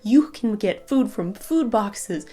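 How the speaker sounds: slow, drawn-out "you're lucky" refrain; emphatic mocking quote. Woman quoting people who told her she was lucky, emphatic mockery. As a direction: parrot their dismissive line, leaning on every phrase.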